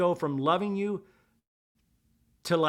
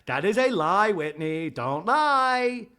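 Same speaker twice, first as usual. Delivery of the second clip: higher, louder imitated accusation; mock angry Lisa; 4 semitones higher, 6 dB louder, slower than usual. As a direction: throw it back at Whitney, hammed-up. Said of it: "And Lisa's like".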